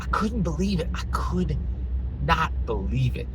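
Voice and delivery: high-pitched incredulous start; stunned disbelief. Real, not acted. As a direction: marvel at it, pausing before the last words. Stunned retelling of his disbelief.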